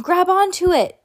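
high, loud urgent call; old man yelling from the floor; yelled. A narrator's reading. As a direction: yell it from the floor. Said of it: "Mister Nakobe yelled from down on the floor".

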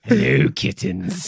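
slow, sultry campy purr; campy drag queen. Pretend. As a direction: drawl it like a diva greeting fans. Campy mod persona greeting.

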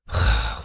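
weary sigh; exasperated sigh. Acted. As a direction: let out a fed-up breath. Counselor exasperated by defiant kid.

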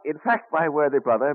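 chuckling through the words; laughing. Acted. Benjamin laughs as he confesses to his brother James. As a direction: laugh as you own up.

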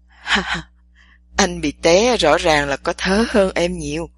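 low, laughing male voice. A narrator's reading. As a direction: gloat through laughter. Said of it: "cười gập cả người".

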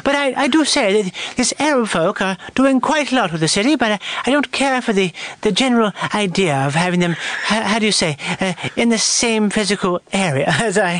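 put-on proper royal English accent; hammed-up proper British accent; King's English. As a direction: keep up the Crown's English. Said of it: "the king's English".

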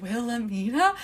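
slow, teasing questioning Wilhelmina; dragged-out name. Retold or imitated. He teases her with her name, drawing it out slowly. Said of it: "drags out her name".

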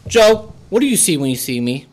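intense wrestler trash talk, building; wrestling promo. Acted. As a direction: call him out like a wrestling heel. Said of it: "I'm gonna cut a promo".

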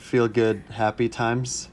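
slow, grand product-name reveal; product name announcement. Acted. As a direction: present the name like an ad.

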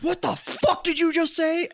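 high, slow, stretched-out furious challenge; slow mock-furious what the fuck; angry snarl. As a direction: bark it back at him, drawn out. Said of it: "spins around and just goes".

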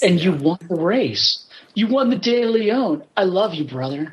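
slow, lightly hammed-up heartfelt speech; a touch of mock sincerity, drawn out; mock meaningful speech. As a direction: lightly imitate a bad actor's big moment. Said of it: "how bad was his meaningful speech".

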